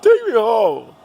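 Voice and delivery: high, loud wailing protest; mock crying. Crying cousin pleading innocence to dad, imitated bawling. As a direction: wail it like a bawling boy. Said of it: "he started crying again".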